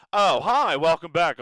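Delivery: loud, high, startled hello; mock surprised greeting. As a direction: act caught off guard. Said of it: "I didn't see you there".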